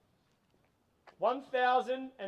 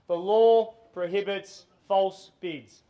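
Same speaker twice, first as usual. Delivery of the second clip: firm warning; 10 dB louder, slower than usual. Real, not acted. Auctioneer stresses legal warning.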